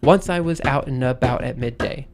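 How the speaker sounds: even triple pulse landing on "Once", "out", "-bout"; three-beat feet. Shown as a demonstration. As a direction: scan "Once I was out and about at midday" in DA-da-da beats. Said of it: "So, like, it will go".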